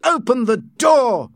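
high, forceful shouted order; angry yell at a closed door; loud shout. A narrator's reading. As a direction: bellow the command, stretching the words. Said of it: "he shouted".

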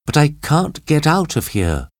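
high female plea; high, lightly distressed call; trapped woman calling. A narrator's reading. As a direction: call high for help from where you're stuck. Trapped Kathy calls back.

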